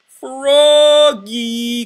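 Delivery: high loud call; teacher crying out. A narrator's reading. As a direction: call the daydreaming child sharply. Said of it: "cried his teacher".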